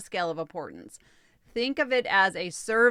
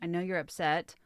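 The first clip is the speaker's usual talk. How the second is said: gentle ask. Shown as a demonstration. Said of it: "So that sounds like".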